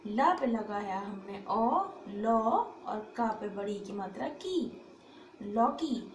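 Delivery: ordinary delivery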